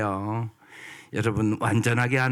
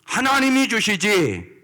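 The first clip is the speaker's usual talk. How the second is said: a preacher acting out bold trust; confident declaration of faith; 6 semitones higher than usual. Shown as a demonstration. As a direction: proclaim God's provision boldly. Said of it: "이래야지".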